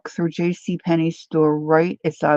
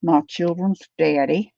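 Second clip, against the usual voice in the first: Leanne Morgan. Retold or imitated. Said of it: "she talks like this".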